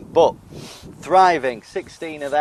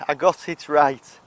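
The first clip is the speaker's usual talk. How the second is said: triumphant; 2 semitones higher, 4 dB louder than usual. Real, not acted. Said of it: "I haven't".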